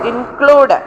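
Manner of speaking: ഇൻക്ലൂഡ് with the second syllable CLUDE punched; weak in, strong CLUDE in ഇൻക്ലൂഡ്; ഇൻക്ലൂഡ്, stress on the second syllable. Shown as a demonstration. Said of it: "സിയുടെ മേളിലാണ്".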